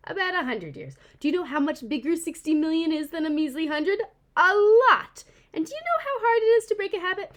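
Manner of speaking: high, loud, indignant creature voice lecturing humans; a proud opossum ranting about cars; sassy opossum narrator. Acted.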